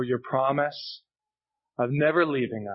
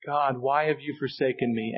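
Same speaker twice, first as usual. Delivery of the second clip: hushed lament. Retold or imitated. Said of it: "as he cried out on the cross".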